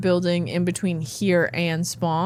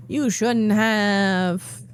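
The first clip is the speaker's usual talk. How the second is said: mock flattered; 2 semitones higher, much slower than usual. Thanking a sapling.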